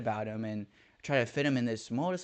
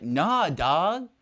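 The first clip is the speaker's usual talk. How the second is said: dismissive retort; 6 semitones higher, 8 dB louder than usual. Retold or imitated. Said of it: "And, like".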